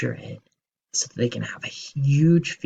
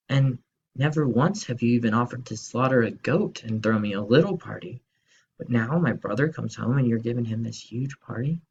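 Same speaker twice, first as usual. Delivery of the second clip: put-on resentful older brother. Jealous brother complains to dad.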